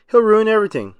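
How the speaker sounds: high, loud alarm; panicked shout. A narrator's reading. Squidward yelling a warning at SpongeBob.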